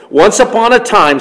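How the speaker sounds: once upon a time, told as a fable; storybook opening. Shown as a demonstration. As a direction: open it like a movie crawl. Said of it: "sounds like Star Wars".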